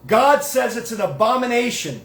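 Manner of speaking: a touch of a stern rabbi yelling; retold yell. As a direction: mimic the teacher scolding him, half-hearted. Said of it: "So he yelled at me".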